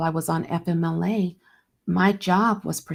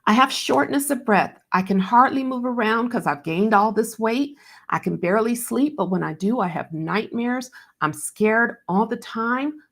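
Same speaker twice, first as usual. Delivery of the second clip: higher, rushed-feeling anguished plea; distraught pleading; 5 semitones higher than usual. Retold or imitated. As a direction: voice climbing higher as the panic spills out. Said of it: "as I cried hysterically".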